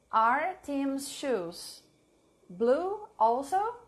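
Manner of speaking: very slow, word by word, for writing down; slow dictation. Shown as a demonstration. Teacher dictating a sentence to the live class, very slowly. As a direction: dictate each word slowly so they can type it. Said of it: "Please write it down".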